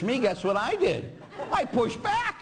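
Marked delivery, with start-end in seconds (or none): 1.5-2.4 high laughing squeal of the punchline. Real, not acted. Priest laughing to congregation about pushing back, high and giggly. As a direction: laugh it out as you reveal the trick.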